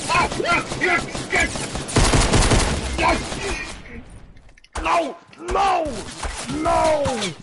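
high shrieking yes then no; man doing a woman's voice. Real, not acted. Shrieking at the game.

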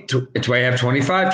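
ordinary talk

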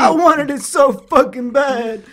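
high, slow, drawn-out desperate wail; whining yell. Real, not acted. Co-host desperate for the bed in game, whining yell. Keeps yelling about the bed.

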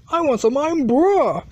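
"Irn-Bru" said as "iron bruh"; mispronounced Irn-Bru. Acted. Repeating the order wrongly, "Irn-Bru" ending in "bruh". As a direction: land "Irn-Bru" on "brah", not "broo". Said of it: "No, it pronounced Irn-Bru".

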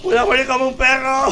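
said high through laughter; laughing hard at his own death. Real, not acted. Repeats the line while laughing. (riéndose a carcajadas)

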